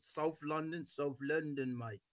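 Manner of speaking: lightly put-on South London accent; imitated South London accent, th as f; South London Cockney. Shown as a demonstration. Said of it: "there's different Cockney accents".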